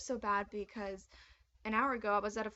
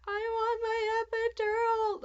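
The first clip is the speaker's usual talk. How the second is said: high, loud pleading wail; crying out for the epidural in labor; desperate cry; 13 semitones higher, 8 dB louder, faster than usual. Retold or imitated. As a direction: beg for it through the pain. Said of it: "just crying every time a contraction hit".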